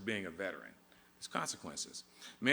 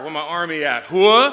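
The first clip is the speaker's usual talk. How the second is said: rousing, high, loud battle cry; hoorah shout; 7 semitones higher, 18 dB louder than usual. Real, not acted. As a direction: pump up the troops with a yell. Rallying Army crowd, call-and-response.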